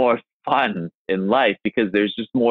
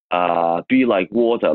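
lightly accented Bruce Lee impression; slower than usual. Shown as a demonstration. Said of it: "like a Bruce Lee accent".

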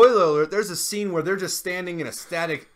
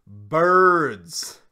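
shouting the word louder each time; exasperated shouting; 2 semitones higher, 11 dB louder, much slower than usual. Real, not acted. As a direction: hammer it home, fed up. Ranting about birds in film.

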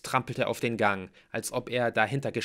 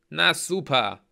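higher, louder, exasperated exclamation; sarcastic dismay; 6 semitones higher, 7 dB louder, slower than usual. A narrator's reading. Mallory sees the raven, sourly exasperated. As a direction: toss it out sourly.

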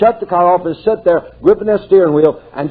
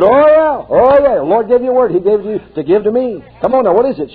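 eager; 5 semitones higher than usual. Retold or imitated. Eager reply to the word.

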